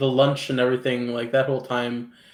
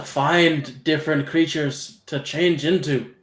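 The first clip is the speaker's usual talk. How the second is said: slow, louder mentor explaining; 3 semitones higher, 5 dB louder, slower than usual. Acted. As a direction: lay out the task slowly and firmly. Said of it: "He's like".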